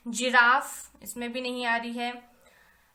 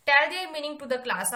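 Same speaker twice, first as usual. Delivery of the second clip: slow dictation; 2 semitones higher, 5 dB louder, much slower than usual. Shown as a demonstration. Reading task aloud to class.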